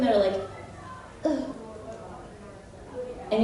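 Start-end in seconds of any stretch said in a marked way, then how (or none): 1.2-1.5 anime grunt. Retold or imitated. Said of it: "those sounds in anime".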